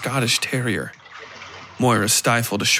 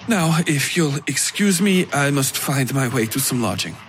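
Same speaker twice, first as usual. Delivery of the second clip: put-on light Russian accent; 3 semitones higher than usual. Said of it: "His voice had a light, foreign inflection".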